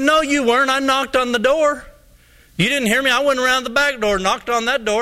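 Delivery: high, insistent mock complaint; retold indignant protest. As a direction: act out an aggrieved man arguing his case. Junior argues back in retold quarrel.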